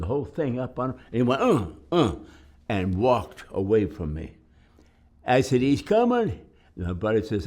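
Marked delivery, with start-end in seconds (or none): 1.4-2.2 imitated grunting. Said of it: "and he's grunting". 5.6-6.4 much higher, louder alarm; warning the foxhole a soldier is coming; urgent warning call. Retold or imitated. Warning buddies of attacker.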